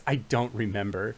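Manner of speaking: a faraway wisp voice; will-o'-the-wisp. Acted. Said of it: "in their Will-O-Wisp voice says".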